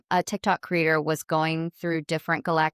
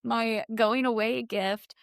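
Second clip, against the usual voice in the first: high, slow, mock breezy send-off; lightly mocking goodbye; sarcastic farewell; 4 semitones higher, slower than usual. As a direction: ironic shrug at a ghost gift. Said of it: "And you're like".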